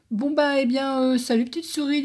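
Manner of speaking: quick, flustered fox in a rush; hurried. A narrator's reading. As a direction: gabble it out, eager to leave. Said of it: "dit le renard en hâte".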